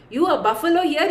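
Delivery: a gentler laughing repeat; laughing scorn. Retold or imitated. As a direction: chuckle through it, mocking. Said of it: "just laughs and says".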